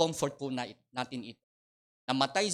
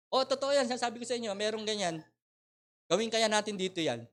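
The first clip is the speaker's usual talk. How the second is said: amused excitement; 7 semitones higher than usual. Real, not acted. Amused after joke on hired mourners.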